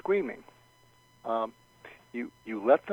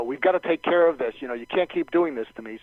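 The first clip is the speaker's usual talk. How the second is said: raised voice; 2 semitones higher, 5 dB louder than usual. Acted. Coach acts an upset customer showing inflection, raised voice. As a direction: raise your voice in insistent protest. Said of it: "when they raise their voice".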